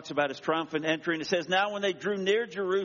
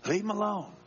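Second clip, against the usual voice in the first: shooing bystander; 5 semitones higher than usual. Acted. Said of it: "one in the crowd that says".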